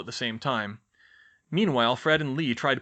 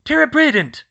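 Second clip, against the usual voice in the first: high, loud spell cry; spell shout; 14 semitones higher, 11 dB louder than usual. Acted. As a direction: fire the hex sharply. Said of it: "Hermione cast".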